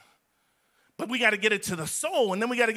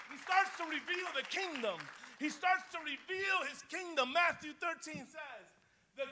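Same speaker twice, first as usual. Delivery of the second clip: high but much softer, hushed; quiet after the shout; 8 semitones higher, 9 dB quieter than usual. Real, not acted. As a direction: drop to a hush after the shout. Sudden drop after shouting.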